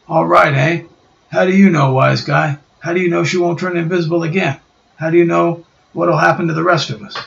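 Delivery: a gruff tough mocking the boss; angry Ben.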